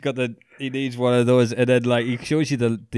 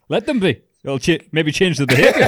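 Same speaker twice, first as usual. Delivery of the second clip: higher, louder, laughing mock defiance; imitating Lake; 5 semitones higher, 6 dB louder than usual. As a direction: blurt it out as the brash bloke. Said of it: "he says".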